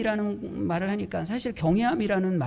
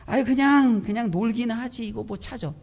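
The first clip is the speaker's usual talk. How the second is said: mock grumbling; 3 semitones higher, 3 dB louder than usual. Preacher acting out his grumble about the lost goggles, exasperated. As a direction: act out an exasperated complaint. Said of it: "제 마음에 불평이 생겨서".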